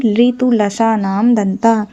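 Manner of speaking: slowly measured Sanskrit formula; slow mnemonic recital. Shown as a demonstration. Teacher reminding students of the trick, slow recital. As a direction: stretch out each word of the trick.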